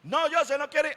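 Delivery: high, sing-song tattle; tattling report. Retold or imitated. Preacher as Juan reporting to the father, tattling. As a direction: tell on José like a child.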